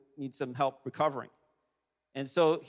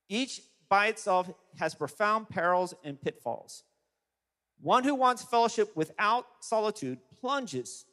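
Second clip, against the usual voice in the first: deliberate, emphatic reading with weighty pauses; solemn quote reading. Acted. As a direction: read it out like a weighty pronouncement, phrase by phrase. Reads out Bonhoeffer quote.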